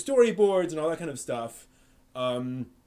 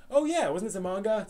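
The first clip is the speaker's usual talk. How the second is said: high, light mock surprise; a sudden dawning, pitched up; mock realization; 6 semitones higher than usual. Recalling watching City Hunter, in a high mock-surprised voice. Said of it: "I was like".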